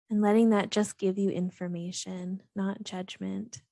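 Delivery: calm, even meditation guidance with long pauses; guided meditation. Real, not acted. Host guiding listeners to settle and breathe, calm meditation voice. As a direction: gently lead listeners through breath and body, unhurried between phrases.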